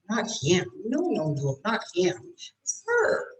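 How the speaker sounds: demonstrated finger-pointing reveal; confiding correction. Shown as a demonstration. Acts confiding who is guilty.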